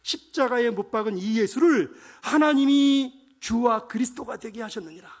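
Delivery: loud, high, emphatic preaching; bold proclamation. Acted. Preacher acting Peter addressing the gathered crowd, forceful proclamation. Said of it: "이렇게 선포한단 말이에요".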